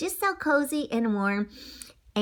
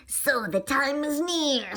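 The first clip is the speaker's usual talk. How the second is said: screeching witch; 4 semitones higher, slower than usual. Acted. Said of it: "screeched Queen Menethia".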